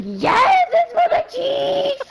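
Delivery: high squeal breaking into laughter; laughing retold reply. Retelling Emily's reply about the smell, laughing. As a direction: imitate the friend, cracking up on the last words.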